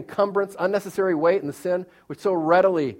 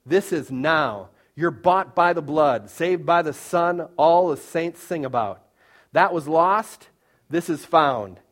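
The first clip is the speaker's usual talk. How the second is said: rhythmic, measured recitation of lyrics; reciting song lyrics. Acted. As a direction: speak the lyrics like a poem. Reciting a worship song's lyrics.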